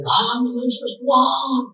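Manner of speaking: high, strained cry of Yesus; high pained yell calling on Yesus; retold shout. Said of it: "Dia teriak".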